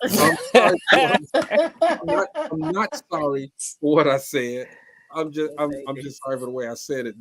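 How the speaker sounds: mocking the excuse through laughter; laughing mock quote. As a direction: giggle while parroting the half apology. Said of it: "I'm mad now".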